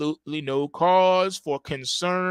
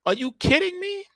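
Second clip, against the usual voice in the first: incredulous; 14 semitones higher than usual. Real, not acted. Incredulous rant about no accountability.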